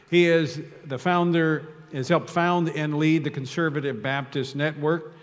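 clear, projected platform announcement; formal introduction. Real, not acted. Host introduces the pastor to the gathering, formal announcement. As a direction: read out a guest's credentials to the hall.

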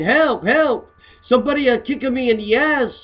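mock scream for help. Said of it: "He's screaming".

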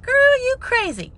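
a high, drawn-out sassy friend voice. Retold or imitated. Friends teasing her about her jokes, in a sassy voice. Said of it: "how many times in my life I heard that".

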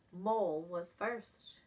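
usual speaking voice

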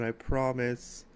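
slow, tender reassurance; emotional promise. Real, not acted. Promising Paige he'll come soon, slow and tender. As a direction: promise it gently, holding back emotion. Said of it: "getting all emotional".

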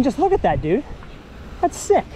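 ordinary talk, nothing marked

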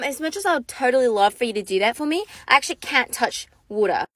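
put-on mystic mermaid girl. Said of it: "keep playing the role".

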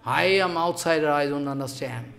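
hushed humble confession; humble murmur. Real, not acted. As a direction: confess it quietly, as an outsider. Humble admission to the Gopikas.

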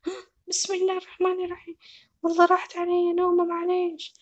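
put-on a girl caught asleep on the job; startled sleepy carer. Zizo woken up, apologizing.

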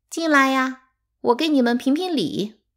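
loud, high call from the porch. A narrator's reading. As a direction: summon the children in sharply. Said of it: "三妈突然叫起来". (高声喊他们进来)

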